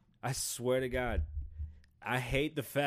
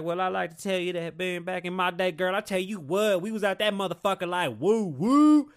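hammed-up Tennessee twang, pitched high; Hillary Clinton; 5 semitones higher, 6 dB louder than usual. Mocking a politician playing to her Tennessee crowd, fake Southern accent. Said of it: "that bullshit Hillary did".

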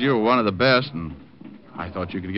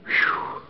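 winded exhale. Acted. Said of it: "I'm winded".

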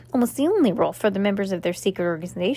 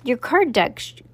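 eager and bright, pushing forward; enthusiastic; 3 semitones higher than usual. Acted. Max Ernest excitedly explains to Cass, enthusiastic. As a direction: sell the idea with real eagerness. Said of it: "said Max Ernest enthusiastically".

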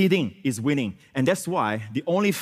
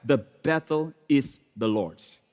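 measured under-breath declaration; slower than usual. Shown as a demonstration. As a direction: say it slowly, word by word. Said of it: "say this under your breath".

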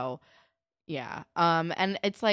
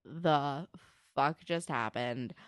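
slow, lowered disbelief; imitated stunned reaction; 2 semitones lower, much slower than usual. Jimmy stunned at seeing Ashley, slow disbelief. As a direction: space the words out, stunned. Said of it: "And he's like".

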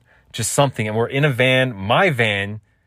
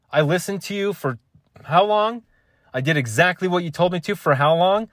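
rising mock outrage, pitched higher; acted upset rant; 5 semitones higher than usual. Comedian acting upset at a pay cut, pitched-up mock rant. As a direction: vent like you've been cheated for years. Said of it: "when I act like I'm upset".

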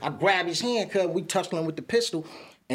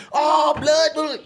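hasty correction; 10 semitones higher, 7 dB louder, much slower than usual. Retold or imitated. Correcting cuz to blood.

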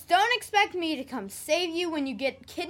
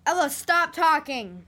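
sharp scolding; 4 dB louder than usual. Acted. Babysitter stops girl chatting to stranger, scolding. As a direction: cut her off, annoyed.

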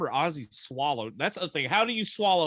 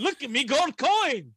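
much higher, louder, slow leprechaun taunt; gloating leprechaun; 12 semitones higher, 4 dB louder, slower than usual. Acted. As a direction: crow it like a gleeful evil leprechaun.

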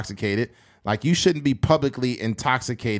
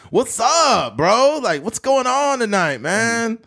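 bro voice; 11 semitones higher, 4 dB louder, slower than usual. Retold or imitated. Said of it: "seeing a group of white guys like".

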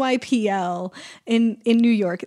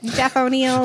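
robot voice; slower than usual. Pretend. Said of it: "say in robot voice".

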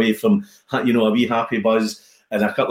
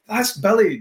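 imitating Jim; 9 semitones higher than usual. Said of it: "this is how Jim sounds".

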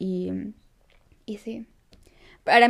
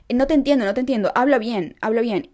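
higher, louder mock scolding; imitated rude scolding; 3 semitones higher, 3 dB louder than usual. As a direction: act out a woman rudely telling someone off. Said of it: "la mujer la comenzó a tratar mal". (regaño grosero imitado, agudo y fuerte)

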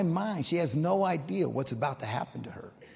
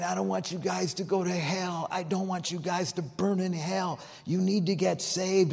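higher-pitched imploring quote, no sobbing; tearful pleading, retold; 6 semitones higher than usual. Dying woman begs backslidden boys to repent, retold pleading. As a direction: plead with them, pitch held high. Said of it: "Doris is weeping, and she's saying".

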